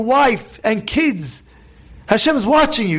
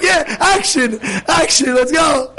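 laughing, high "yeah, action"; mock cheering crowd; 3 semitones higher, slower than usual. Bystanders filming the gas station fight, gleeful mock cheer.

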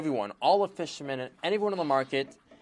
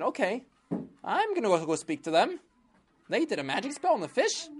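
king voice; 8 semitones higher than usual. Acted. King agreeing to the minister.

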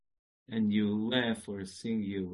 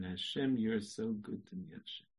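softer, calm return; quiet repeat; 2 semitones lower, 6 dB quieter than usual. Shown as a demonstration. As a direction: say it gently, settled. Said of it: "you say your sentence again".

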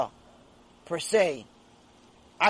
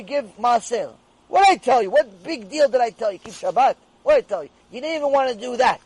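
rising, louder rebuke with fast, pressing lines; scolding God; 5 dB louder than usual. Acted. Hashem rebukes the wicked for skipping small tests, scolding louder. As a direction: hammer each "I just told you" like a disappointed father. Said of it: "Hashem says".

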